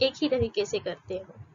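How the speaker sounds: ordinary delivery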